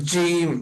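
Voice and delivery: জিম pressed hard and held long; emphatic drawn-out জিম; very firm consonant. Shown as a demonstration. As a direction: lean firmly on জিম. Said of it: "খুব শক্ত করে উচ্চারণ করব".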